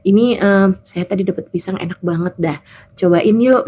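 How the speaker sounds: low, easygoing offer; casual, as if nothing happened. Retold or imitated. Wife offers husband fried banana, casually. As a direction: gently coax in an everyday voice. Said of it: "seperti tidak terjadi apa-apa".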